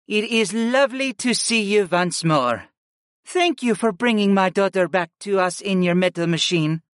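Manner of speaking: put-on welcoming older woman; gracious mother voice. Retreya greets son-in-law.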